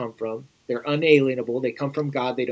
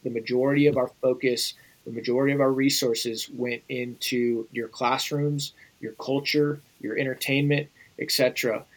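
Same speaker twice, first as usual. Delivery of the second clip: put-on a light thick Russian accent; 3 dB quieter than usual. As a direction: slip into a faint Russian accent when quoting. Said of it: "he says with his thick Russian accent".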